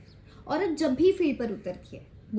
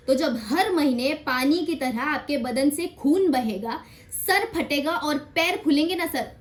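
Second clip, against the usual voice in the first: impassioned rebuke; 3 dB louder than usual. Acted. Woman confronts sir in acted argument. (धीमे, ज़ोरदार लहजे में तीखी फटकार)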